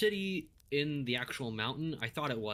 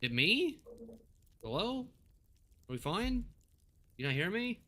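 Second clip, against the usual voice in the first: like a bad mic dropping words; glitching audio; 10 semitones higher than usual. Real, not acted. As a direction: voice cutting out and breaking up. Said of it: "your voice is glitching a smidge".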